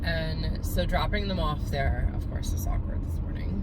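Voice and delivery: choked whisper, fighting tears; holding back tears. Real, not acted. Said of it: "I'm trying not to cry right now".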